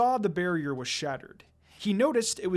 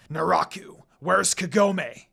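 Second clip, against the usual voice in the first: slow, louder, seething demand; furious snarl; 5 dB louder, slower than usual. A narrator's reading. Sesshomaru confronting Naraku, furious snarl. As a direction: spit each word at your enemy. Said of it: "Sesshomaru snarled furiously".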